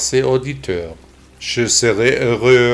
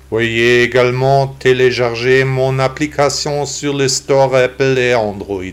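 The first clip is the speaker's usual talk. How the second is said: synthetic text-to-speech computer voice. Real, not acted. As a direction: read like a computer voice. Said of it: "j'ai décidé d'enregistrer le podcast avec une voix d'ordinateur".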